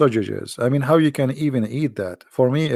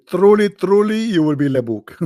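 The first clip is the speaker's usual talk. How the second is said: high, loud "truly, truly", then laughing; mock solemn threat; 6 semitones higher, 4 dB louder than usual. Real, not acted. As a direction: threaten a ban, half joking. Mock threat to a chat viewer.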